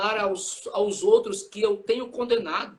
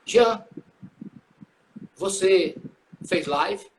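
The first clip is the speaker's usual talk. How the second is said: loud, halting questioning, word by word; mock judgment question; 3 semitones lower, 4 dB louder, much slower than usual. Jesus mock-questioning Jean on Judgment Day, loud and halting. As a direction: put it like a mock judge, loud with long pauses. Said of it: "vai ser assim".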